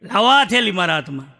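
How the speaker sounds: a hammed-up jealous outburst; mock angry snap. Wife snatches the bag, annoyed.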